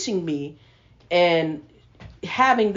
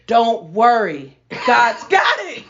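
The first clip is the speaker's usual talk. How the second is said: peaceful reassurance; 5 dB louder, slower than usual. Retold or imitated. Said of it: "this peace in his eyes".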